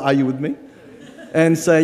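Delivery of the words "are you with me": Filipino style. Shown as a demonstration. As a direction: ask it the Filipino way, lower and with a rising end. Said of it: "give me a Filipino sort of".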